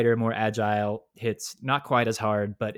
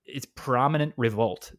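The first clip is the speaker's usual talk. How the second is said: put-on anime girl voice. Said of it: "That is what she says".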